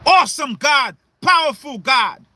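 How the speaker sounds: a pleading mother's plea to God; Rachel pleading with God. Acted. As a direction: cry out to God for your children, half-shouting. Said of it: "what your mother Rachel said to the Most High".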